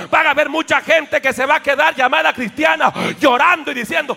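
loud, driving sermon warning; preaching at full force. Acted. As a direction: thunder it at the congregation. Preaching about the rapture. (predicación a gritos)

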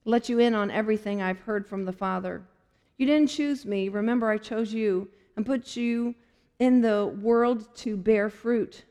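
steady, earnest Bible reading; scripture reading. Acted. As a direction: read the verses with sincere weight. Reads scripture from the Message.

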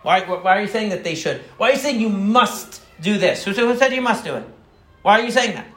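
mock a blunt therapist picking apart a belief; a hint of a scornful, combative shrink; critical therapist. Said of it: "he would also criticize his patients".

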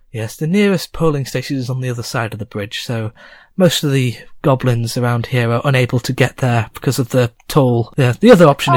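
lightly voiced innkeeper; matter-of-fact barkeep; goblin landlady. Landlady explains the bridge toll, lightly voiced. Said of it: "the landlady says".

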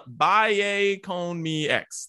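slow, deliberate Spanish accent on the title. Shown as a demonstration. Host naming a singer's song, showing off his Spanish accent. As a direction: roll out the song title with a Spanish accent, slowly. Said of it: "That's my Spanish accent right there".

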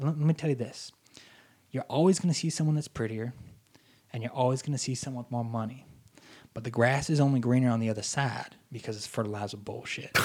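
folksy advice in an imitated Southern accent; bad Louisiana accent. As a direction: put on a rough Baton Rouge accent. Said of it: "I'm gonna do a horrible accent".

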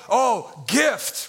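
underwhelmed "oh", then a falling "gift"; mock lack of excitement; unexcited, as with a period. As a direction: say it like it ends in a period. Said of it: "a period would say".

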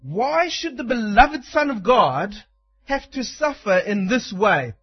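a hint of a sly tempter, coaxing; lightly voiced devil sowing doubt; Satan's taunting voice. Preacher voicing Satan tempting hungry Jesus, sly. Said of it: "He says it like this".

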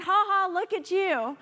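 a scornful little laugh; mocking laugh. Preacher imitates God's mocking laugh at enemies. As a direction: laugh down at someone beneath you. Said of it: "It's like".

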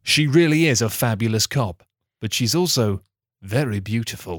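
measured, deadpan storyteller read; deliberate storybook delivery; story narration. A narrator's reading. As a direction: narrate a silly recap like a serious tale. Script narration.

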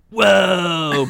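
amazed. Acted. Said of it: "Blog said".

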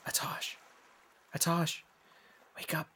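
hushed, urgent whisper to wake someone; stage whisper. Acted. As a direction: whisper it a little high, rousing a sleeper. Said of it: "she whispers".

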